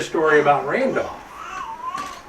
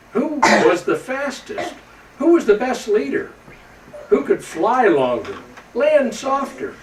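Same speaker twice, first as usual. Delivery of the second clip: put-on children's eager questions; 8 semitones higher than usual. Young reindeer asking about legends.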